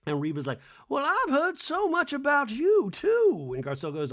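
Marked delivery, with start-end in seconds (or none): 0.9-3.5 high, loud, slow Southern lady drawl; old lady voice. Retold or imitated. A singer answering Garcelle's greeting, sugary old lady. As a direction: sing it back sweetly like an old belle. The singer's voice imitated.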